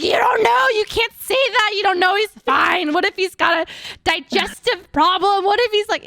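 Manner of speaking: high, pleading mock sobbing; retold tearful panic. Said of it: "and I was like".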